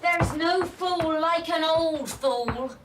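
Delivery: pitched high, drawn out at the end; taunting jibe. Acted. Quarrelling neighbour answers back about an old fool, taunting. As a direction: needle them with a slow, high sing-out.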